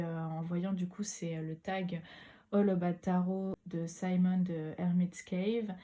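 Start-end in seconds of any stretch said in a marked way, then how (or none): 2.5-5.7 English title in a strong French accent, a little slow; self-conscious French accent on English words. Real, not acted. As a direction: read the English name the French way. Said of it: "pardon pour mon accent anglais".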